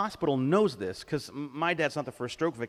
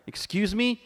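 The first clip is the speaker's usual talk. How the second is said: high-pitched acted affront; imitated offended challenge; indignant question; 7 semitones higher, 3 dB louder than usual. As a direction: object as if rudely interrupted. Interrupted daughter confronts dad.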